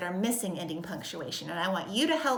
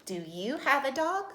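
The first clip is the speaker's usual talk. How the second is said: higher-pitched question lifting up on "dog"; questioning rise; 5 semitones higher than usual. Shown as a demonstration. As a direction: ask it with the voice climbing to "dog". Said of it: "I'm asking you a question".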